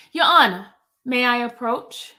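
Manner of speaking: formal attorney addressing the judge; courtroom lawyer. Acted. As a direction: argue the motion to the court. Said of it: "I'm Mister Steele right now".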